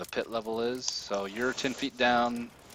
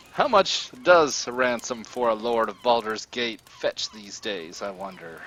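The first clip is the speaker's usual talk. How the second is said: scheming villain; 6 dB louder than usual. Acted. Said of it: "And he says".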